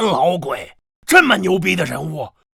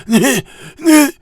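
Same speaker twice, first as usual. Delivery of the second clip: startled stammer, voice pitched up; frightened; 5 semitones higher than usual. Acted. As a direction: stutter as if facing a ghost. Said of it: "害怕啦". (吓得结结巴巴)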